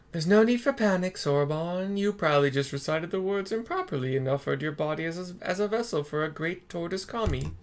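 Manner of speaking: a hint of the calm elder brushing it off; Genbu voice. Genbu reassuring Soroban.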